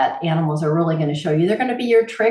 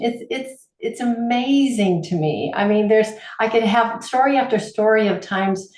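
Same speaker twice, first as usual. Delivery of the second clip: ordinary talk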